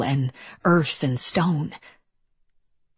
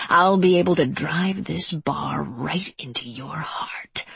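slick wet voice. Acted. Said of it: "in his slick, wet voice".

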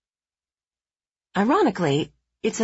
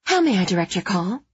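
film noir secretary; faster than usual. Acted. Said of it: "imitating the breathy voice of a film noir secretary".

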